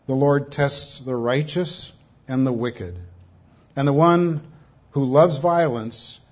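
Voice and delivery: slow, weighty reading from the pulpit; solemn scripture reading. Acted. Preacher reading Psalm eleven to the congregation, solemn. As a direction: let each line land with gravity.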